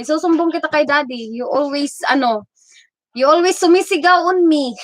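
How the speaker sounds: imitated child's complaint, lightly voiced; tattling child. Streamer mimics own child threatening to tell daddy, mock complaint. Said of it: "Ganyan, ganyan lang siya".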